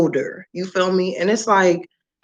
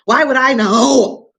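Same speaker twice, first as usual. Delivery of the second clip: drawn-out exasperation; exasperated, slow, higher; 4 semitones higher, slower than usual. Real, not acted. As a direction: lay it out slowly like it's obvious. Ranting at daughter.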